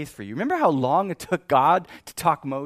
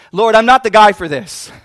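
loud, higher-pitched plea; protesting Moses; 6 semitones higher, 17 dB louder than usual. Acted. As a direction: cry out your objection to God. Moses pleading to be let off.

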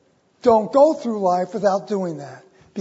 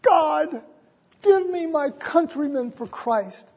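Knox's prayer; 7 semitones higher than usual. Retold or imitated. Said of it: "Her husband saying".

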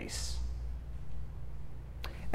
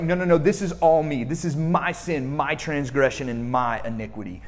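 raised, pleading confession; earnest admission; 3 dB louder than usual. Retold or imitated. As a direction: own it all, urgently. David owning his sin, voiced.

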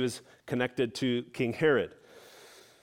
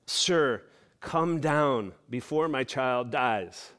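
pleading father; slower than usual. Retold or imitated. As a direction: beg him, slowly, for his dying child. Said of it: "he's pleading with Jesus".

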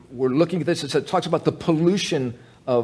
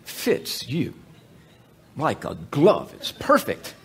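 reassuring husband; slower than usual. Retold or imitated. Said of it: "you are going to say".

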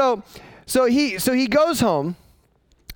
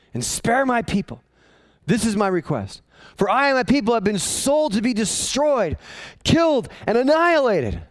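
rising plea; 6 semitones higher than usual. Acted. Esther's petition building up.

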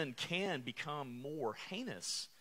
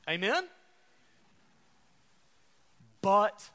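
loud, stressed BUT the Lord; preacher raising his voice to rouse the room; louder preaching; 4 semitones higher, 8 dB louder than usual. Acted. Preacher rousing a drowsy congregation, louder.

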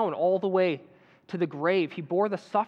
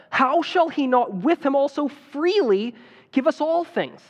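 rising, louder preaching that presses each question; fervent preaching; 3 dB louder than usual. Acted. Preacher urging the congregation to trust God, fervent preaching. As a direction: urge the flock like a preacher pleading at full force. Preacher builds to full force.

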